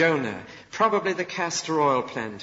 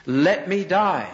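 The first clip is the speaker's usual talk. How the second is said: slow, louder, anguished cry; slow loud despair, higher; despairing plea; 4 semitones higher, 5 dB louder, slower than usual. Acted. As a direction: drag it out like a broken man. Jonah at the last straw.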